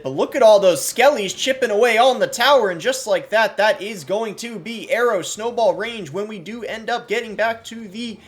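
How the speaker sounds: high, loud excited play-by-play; frantic mock sports commentary. Real, not acted. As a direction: call it like a hyped sports caster. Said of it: "Why do I sound like I'm a sports commentator".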